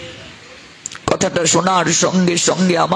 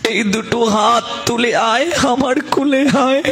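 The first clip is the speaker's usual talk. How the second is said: loving God's call; 3 semitones higher than usual. Retold or imitated. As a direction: comfort the crying child like a father. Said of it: "ভগবান তখন আসবেন".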